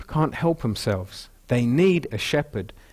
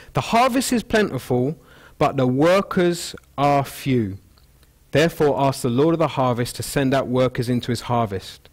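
scripture reading. Shown as a demonstration. Preacher reading Matthew to the congregation, raised reading voice. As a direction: lift it as you read the verse. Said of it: "I should have read out".

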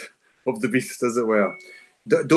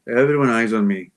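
meant firmly. Shown as a demonstration. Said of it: "Say it like you mean it".

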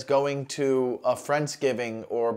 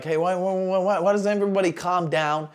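mobster movie voice; 2 semitones higher than usual. Retold or imitated. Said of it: "from all the legendary mobster movies".

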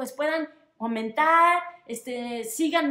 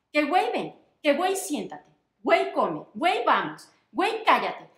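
mocking complaint; 4 dB louder than usual. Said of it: "Ladré con todas mis fuerzas".

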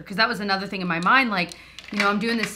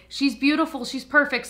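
reassuring nurse; 6 semitones higher than usual. Retold or imitated. Voices nurse giving good news.

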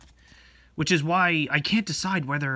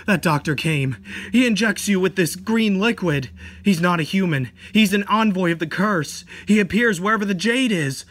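frightened explaining; 3 semitones higher, 4 dB louder than usual. Acted. Frightened friend explaining doctor.

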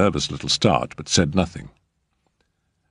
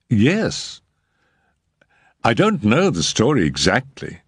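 higher, reluctant agent voice; 5 semitones higher than usual. A narrator's reading. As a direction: drag it out unwillingly, higher. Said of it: "he continued reluctantly".

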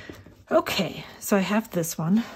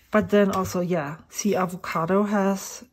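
mouth full. Real, not acted. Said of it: "I have my dip pen in my mouth".

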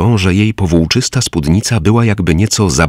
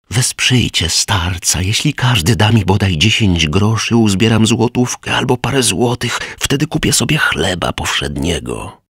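beggar calling out; 5 semitones higher than usual. Acted. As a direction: drag out the plea for alms. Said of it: "zaczął wołać".

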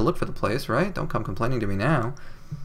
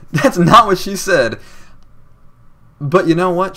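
laughing joke; 6 semitones higher, 6 dB louder than usual. Real, not acted.

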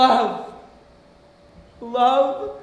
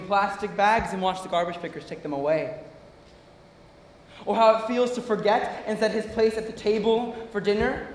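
low, softer, wounded reproach; bitter grief; 5 semitones lower, 7 dB quieter than usual. Acted. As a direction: hold the hurt down, speak low and quiet. Bitter grief confronting mother.

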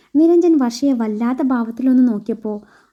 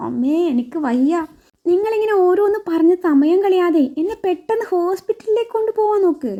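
faked pain; 5 semitones higher than usual. Wife pretending illness begs husband, hammed-up moaning plea. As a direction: ham up the suffering to get to hospital. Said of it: "വർഷ അഭിനയിച്ച് തകർക്കുവാണ്".

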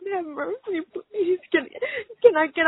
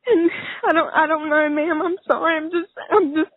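beside myself; 5 semitones higher, 10 dB louder than usual. Real, not acted. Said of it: "I'm beside myself right now".

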